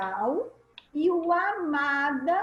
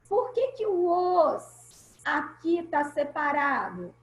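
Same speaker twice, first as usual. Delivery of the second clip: ordinary delivery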